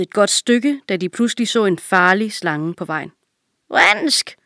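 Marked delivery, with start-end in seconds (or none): 3.7-4.4 startled horse. A narrator's reading. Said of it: "sagde hesten".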